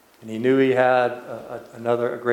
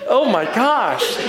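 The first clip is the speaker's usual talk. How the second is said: high, breathless disbelief; stunned; 10 semitones higher, slower than usual. Real, not acted. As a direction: gasp it out in shock, laughing. Stunned players reacting.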